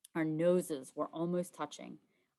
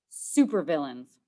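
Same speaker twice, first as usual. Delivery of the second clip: flat correction; 3 semitones lower, 6 dB louder, slower than usual. Acted. Heroes versus villains squabble.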